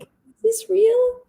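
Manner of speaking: high, slow, breathless disbelief; stunned disbelief. Retold or imitated. Teacher reading a dedicated book, high slow disbelief. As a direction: ask it slowly as if it can't be true.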